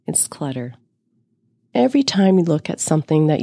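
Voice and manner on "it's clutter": soft, whispered aside; whispering. Real, not acted. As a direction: drop to a whisper for the point. Whispered punchline.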